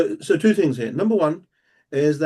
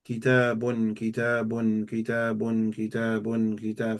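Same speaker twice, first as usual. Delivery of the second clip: low, even memorizing chant; soft monotone drilling of one word; repetition drill; 3 semitones lower, 4 dB quieter, slower than usual. Shown as a demonstration. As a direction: repeat it evenly, like learning by rote. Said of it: "I would just repeat it five times".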